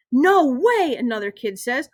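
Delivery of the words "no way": put-on disbelieving kid. A narrator's reading. Another kid reacts.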